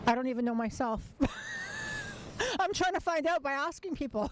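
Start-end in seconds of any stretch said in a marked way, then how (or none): 1.1-2.5 high shrieking laugh. Real, not acted. Interviewer bursts out laughing.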